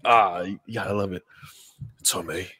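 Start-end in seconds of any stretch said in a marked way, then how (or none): 2.0-2.5 drawn-out mock Peaky Blinders British accent. Quoting a favorite show to the hosts, mock Peaky Blinders accent. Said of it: "Peaky Blinders is so freaking good".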